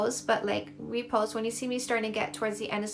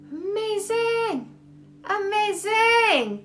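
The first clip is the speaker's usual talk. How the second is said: drawn-out amazing; 9 semitones higher, 5 dB louder, much slower than usual. Real, not acted. Praising a viewer.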